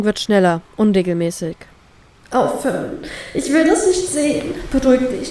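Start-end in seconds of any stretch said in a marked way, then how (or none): 2.3-4.5 higher, frightened pleading voice; a scared girl losing control; panicked plea. Acted. Panic attack, heart racing. 4.7-5.3 firm, soothing companion voice; steady her through the panic; a friend calming her down. Acted. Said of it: "dann hört es auf".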